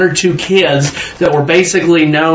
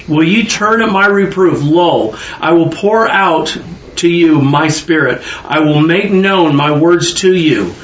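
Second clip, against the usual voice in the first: slow, measured Bible reading; preacher reading scripture aloud. Acted. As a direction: read the verse slowly, with weight. Reads Proverbs aloud.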